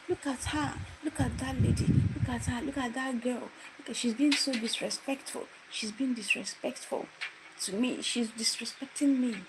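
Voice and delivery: high, whiny accusing voice; complaining lecturer. Retold or imitated. Lecturer complaining to colleagues, high whiny accusation. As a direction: play the wronged party to the crowd.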